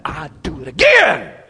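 loud sudden declaration; emphatic shout. Real, not acted. Preacher insisting to the gentlemen he'd repeat it. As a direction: belt it out with conviction.

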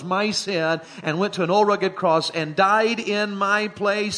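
full-force preaching. Acted.

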